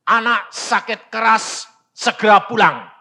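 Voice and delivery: emphatic acted telegram; urgent telegram reading. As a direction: announce each phrase with alarm.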